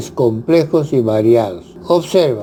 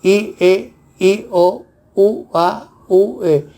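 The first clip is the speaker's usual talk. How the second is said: higher pitched listing of vowel pairs; teacher reading hiatus vowel pairs higher; higher, vowels read out one by one; 4 semitones higher than usual. Shown as a demonstration. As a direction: call each vowel pair out higher, like on a chart.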